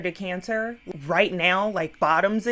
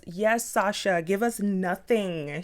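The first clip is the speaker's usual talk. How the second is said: sassy cheer; slower than usual. Real, not acted. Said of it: "cheering Sasha on".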